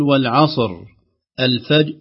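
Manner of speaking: والعصر and الفجر with a vowel slipped onto the middle consonant; loud wrong examples of two sukuns; moving the first sukun. Shown as a demonstration. Teacher showing a common recitation error. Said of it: "هكذا".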